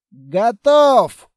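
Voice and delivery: shouting the all-clear. A narrator's reading. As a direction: call across the snow. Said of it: "крикнул Строгов".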